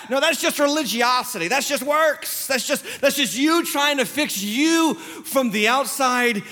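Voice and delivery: impassioned pulpit correction; emphatic preaching. Real, not acted. Preaches against fixing oneself outwardly.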